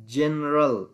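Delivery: "جنرال" starting with a clear J sound; soft G. Shown as a demonstration. Teacher repeating the example word, clear soft G. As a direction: model "جنرال" with initial ج.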